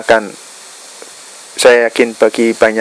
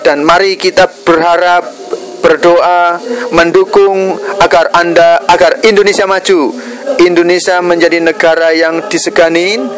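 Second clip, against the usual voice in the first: raised, higher-pitched rallying oratory; stirring patriotic speech; 5 semitones higher than usual. Real, not acted. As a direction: call the nation to rise, phrase by phrase.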